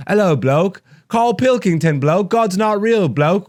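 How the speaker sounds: bad British accent, pitched high; badly faked, high-pitched British comic; Ricky Gervais. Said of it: "I can't do a British accent".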